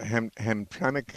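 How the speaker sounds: "Hamtramck" tried slowly after a false start; hesitant pronunciation. Shown as a demonstration. Host unsure how to say the Michigan town, slowly. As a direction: sound out "Ham-, Hamtramck" carefully. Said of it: "I don't know how to pronounce it".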